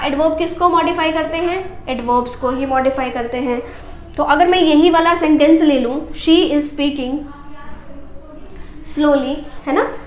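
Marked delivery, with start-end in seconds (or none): 6.1-9.3 very slow, word by word; slow dictation. Shown as a demonstration. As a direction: dictate slowly to the class. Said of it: "slow dictation of example". (धीरे-धीरे बोलना)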